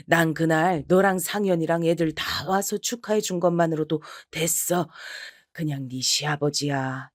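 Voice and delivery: a dad trying to smooth things over; soothing father. Acted. (낮은 목소리로 달래는 아버지)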